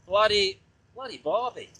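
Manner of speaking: practising a mock Aussie accent; attempted Australian accent. Shown as a demonstration. Rider rehearsing a tricky phrase, badly faked Australian accent. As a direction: try out Australian vowels on "bloody barbie". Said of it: "can't get the bloody barbie bit right".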